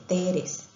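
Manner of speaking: teres, slow, with an e pushed into tres; child's mispronunciation. Shown as a demonstration. Teacher showing a child's inserted vowel, slow teres. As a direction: slowly say teres, breaking up the tr of tres. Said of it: "quiere pronunciar la palabra tres".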